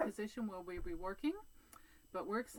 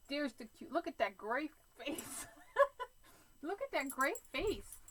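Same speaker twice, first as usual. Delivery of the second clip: cooing at the dog; 7 semitones higher, 4 dB louder than usual. Real, not acted.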